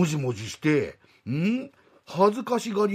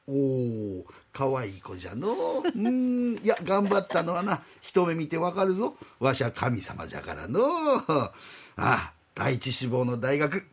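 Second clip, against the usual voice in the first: put-on old god voice; 2 semitones lower than usual. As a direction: speak as a doddering old god. God praises girl.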